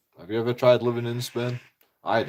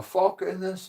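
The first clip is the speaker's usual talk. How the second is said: mocking mum; 8 semitones higher, slower than usual. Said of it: "I go".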